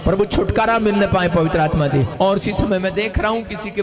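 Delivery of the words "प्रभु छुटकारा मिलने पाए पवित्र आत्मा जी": fervent preacher praying at full force; forceful public prayer. Real, not acted. Preacher praying for blessing on their homes, fervent prayer. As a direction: declare each blessing over the crowd, swelling on key phrases. Prays over the women for blessing.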